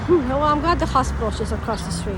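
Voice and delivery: loud, high, fast indignant rant; agitated rant. Real, not acted. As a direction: vent fast after nearly being run over. Angry rant after near-miss.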